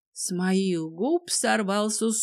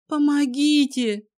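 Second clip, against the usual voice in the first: a raised, high cry for help; 7 semitones higher, 6 dB louder than usual. A narrator's reading. The captive heroine shouts for help from the couch. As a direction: call out to anyone who can hear. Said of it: "выкрикнула я".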